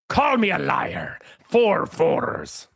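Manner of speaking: slow whispered movie quote. Shown as a demonstration. Streamer whispering a film quote to his chat. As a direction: hush it like a secret line. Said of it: "Does anybody get the reference".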